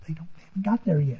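hushed stage whisper; confidential whisper. Retold or imitated. Wife warning Papa they haven't got there, whispered.

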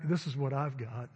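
low, understated mock pity; laid-on self-pity. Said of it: "really put it on 'em a little bit".

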